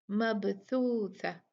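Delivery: मबसूसा slowly recited, the ब bounced with an echo; Quranic recitation. Shown as a demonstration. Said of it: "जो आयत number सोलह में है". (मबसूसा को धीरे से, ब पर क़लक़ला देकर पढ़ें)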